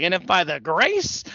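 drawn-out hammed-up promo, topped with a howl; Ric Flair woo. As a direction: imitate a wrestler preaching up to a whoop. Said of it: "it's the best woo he's ever done".

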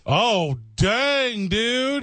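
a stretched-out, high "dang, dude"; surprised. Real, not acted. Friend reacting to the tiny one-hour rule, surprised. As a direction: pitch jumps way up in mock disbelief.

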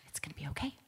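very soft, barely-there reassurance; acting out a lost voice; imitated voiceless whisper. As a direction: reassure with almost no voice, pitched low. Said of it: "why are you whispering".

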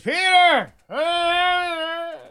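comic Jesus calling down to Peter from the cross; Jesus crying out. Acted. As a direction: stretch out a booming, high hallelujah from the cross. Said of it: "And then Jesus goes".

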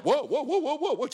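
high-pitched, rattled-off disbelief with laughter; stunned reaction. Retold or imitated. Imitating the friend just called hyung, stunned and high.

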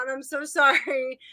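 apologizing through hiccups. Real, not acted. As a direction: hiccup between words. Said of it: "I have the hiccups now".

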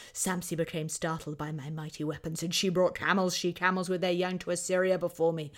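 lightly voiced conquering king, firm and proud; Assyrian king impersonation. Historian reads on about the defeated queen, in a milder kingly impersonation. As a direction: keep up a hint of the kingly proclamation. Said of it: "now I'll do my best Assyrian impersonation".

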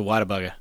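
"Whataburger" said quickly as "wadda-bugga"; dropped-r pronunciation. Real, not acted. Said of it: "Why did you say it like that?".

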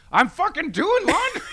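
high, loud snap back; retold exasperated yell. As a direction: re-enact yelling back in outrage. Yells back at laundromat lady.

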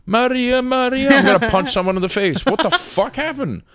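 high, loud mock fury at a concert; exasperated shout to Maria about punching someone; mock outrage. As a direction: yell it in disbelief, playing it up. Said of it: "I'm like".

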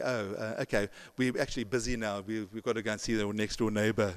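a hint of a flustered visitor, quick and soft; mock hurried excuse. Flustered visitors at the door make an excuse to leave, quick and soft. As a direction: mumble an excuse to get away, quickly.

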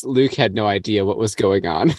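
low, deadpan narrator voice. Pretend. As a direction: intone it like a film narrator. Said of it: "Narrator voice".

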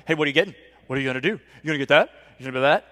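mocking imitation of a pushy dad; needling questions, each jumping up at the end; obnoxious. Annoyed dad butting in at the ice cream line, mock obnoxious. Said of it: "just really obnoxiously like".

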